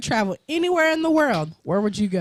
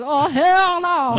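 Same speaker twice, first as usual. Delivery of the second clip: mock crowd reaction; 6 semitones higher, 6 dB louder, much slower than usual. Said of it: "They're like".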